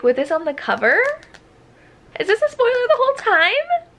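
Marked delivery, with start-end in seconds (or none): 2.2-3.9 high, loud panicked question. Real, not acted. Reader realizing the cover spoils the plot, panicked high squeal. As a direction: shriek it in disbelief.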